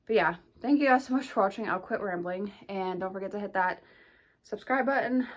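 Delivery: breathless sign-off, catching air; a bit winded, pushing words out; out of breath. Real, not acted. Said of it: "and out of breath".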